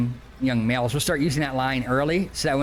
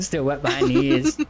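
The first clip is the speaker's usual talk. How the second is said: put-on louder creaky old-timer; old man voice; 4 dB louder than usual. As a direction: echo it as a crusty grandpa. Host echoes old man line.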